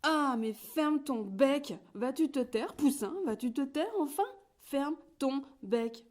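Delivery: whole farmyard yelling at the chatterbox; shouting in chorus. A narrator's reading. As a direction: bellow at the chick to shut up. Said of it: "se mettent à crier".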